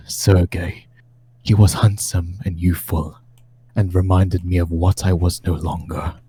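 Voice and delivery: measured, solemn gothic narration; dramatic diary reading. Acted. Game master reading Strahd's tome to the players, dramatic solemn narration. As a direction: read it as an ancient lord recording his tale of woe.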